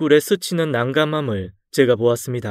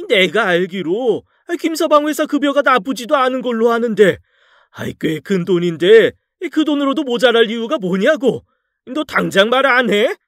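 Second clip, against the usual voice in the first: furious father; 9 semitones higher than usual. Acted. Father-in-law demands answers.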